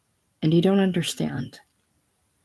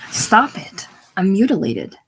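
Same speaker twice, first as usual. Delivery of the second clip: high loud panicked outcry; panicked cry; 4 semitones higher, 4 dB louder than usual. A narrator's reading. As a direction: cry out in panic to stop him. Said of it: "She cries out in panic".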